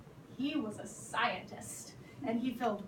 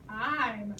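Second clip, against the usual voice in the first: slow exasperation; much slower than usual. Acted. The platypus repeating itself slowly to George. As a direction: spell it out, fed up.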